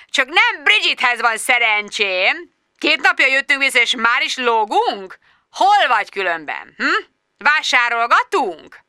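high, drawn-out, singsong mock greeting; sarcastic boss on the phone. A narrator's reading. Boss taunting an absent employee over the phone, high and sarcastic. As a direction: needle them with stretched, rising questions.

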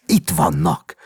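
loud, eager cry; exclaimed. A narrator's reading. Doctor hands the boy a balloon, crying out. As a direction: cry out as if presenting a prize. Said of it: "kiáltotta".

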